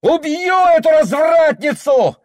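very high yell; murderous scream. A narrator's reading. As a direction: scream the threat. Son runs off screaming.

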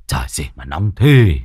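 low, grumbling curses while trudging in the heat; cursing grumble. Acted. Moneylender cursing the heat on his way to collect debt, grumbling low. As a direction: swear under your breath at the long hot road. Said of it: "Lão Khâm vừa đi vừa chửi động".

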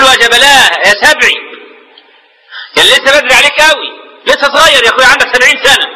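keen over the dead, lightly hammed-up; imitated wailing mourner. Woman mourns her seventy-year-old brother, mock wailing. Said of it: "اللي بتصوت دي".

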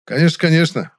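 loud, high, showy agreement; played for the audience. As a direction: ham it up for the listeners. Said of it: "сыграл я, играя на публику".

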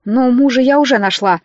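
ordinary delivery, nothing marked

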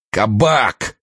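a sharp tearful cry, pitched high; tearful angry shout. Acted. Frozen officer cursing in pain, tearful shout. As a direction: spit the word out in angry tears. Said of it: "яростно и слезливо крикнул".

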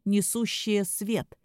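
slow, ominous warning; sinister voice. Acted. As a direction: spell it out to scare them. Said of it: "зловещим голосом начал любимый".

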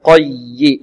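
قي slow, pressing into a double y; stressed doubled ya. Shown as a demonstration. Teacher showing the nabr on shadda, stressed ya. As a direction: lean on the y of قي, held long. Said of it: "والياء هنا مشددة، نبر".

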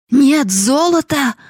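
high, loud, slow howl of NO GOLD; old father howling in outrage; howling old man. Acted. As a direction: yell it out like a shocked miser. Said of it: "завопил старик".

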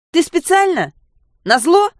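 put-on furious girl screaming at her friend for doing it on purpose. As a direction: scream it out, beside yourself. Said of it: "проорала я".

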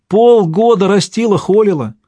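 high, loud wailing voice; wailing lament. A narrator's reading. Wife mourning the heifer.

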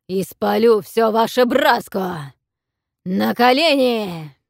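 loud, slow booming threat; threatening dragon roar. A narrator's reading. Dragon threatens to burn the sea lords, loud booming. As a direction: thunder each threat from above.

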